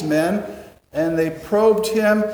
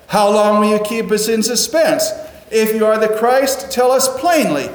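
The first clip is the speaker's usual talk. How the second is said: loud, high mocking demand, 'plainly' pushed up; sarcastic challenge; 4 semitones higher, 4 dB louder than usual. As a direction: taunt him like a street gang. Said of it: "And that's sarcasm".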